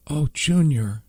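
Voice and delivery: high, worried call to her brother. A narrator's reading. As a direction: call out his name in alarm. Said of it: "Hope called out".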